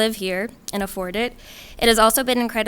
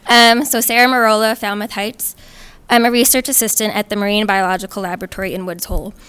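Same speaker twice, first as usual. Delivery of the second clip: louder, clearly carrying self-introduction; raised volume, loudest at the start; closer to mic; 5 dB louder than usual. Real, not acted. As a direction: restart the introduction at fuller volume. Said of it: "Sarah, closer to the mic".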